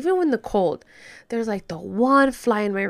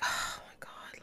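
whispered thought; 15 dB quieter, slower than usual. Retold or imitated.

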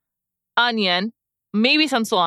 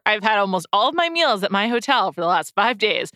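confessing. Real, not acted. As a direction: admit it as a full disclosure. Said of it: "in full disclosure".

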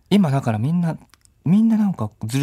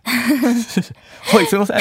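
shy audience member; 12 semitones higher, much slower than usual. Pretend. Plays shy audience questioner.

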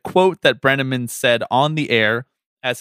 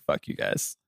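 hushed, breathy fake grumble from the audience; a voiceless, deflated fuck-you; mock whispered curse; 10 dB quieter, slower than usual. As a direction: mutter it under your breath like a sulky fan. Listeners' mock angry reaction retold.

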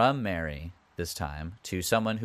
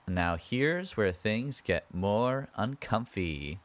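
drawn-out warning; 3 semitones higher, slower than usual. Real, not acted. Hesitant warning before awkward part.

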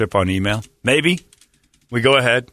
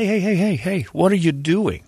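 mock alarmed call-out; 8 semitones higher than usual. A host playing himself stopping a co-host mid-slur, alarmed. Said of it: "I'm like".

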